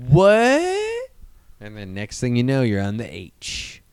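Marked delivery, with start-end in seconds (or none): 0.1-1.1 high, loud shocked yelp. Real, not acted. Reacting to a heroin joke, shocked and high. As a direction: jump up in disbelief. Surprised outburst.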